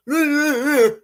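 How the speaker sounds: very high, loud mocking nah; playground-style brush-off; mock dismissive. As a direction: brush them off childishly. Rude dismissive reply mocked.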